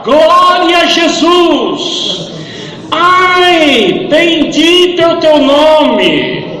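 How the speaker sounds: high, slow, loud cry of praise; shouted praise. Retold or imitated. Dying man shouting praise to God despite his pain. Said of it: "Em seguida ele falava".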